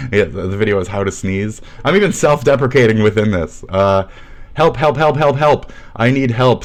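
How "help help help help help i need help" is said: higher, mocking cry for help; mocking whine. Mocking a commenter, whiny help. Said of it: "says you".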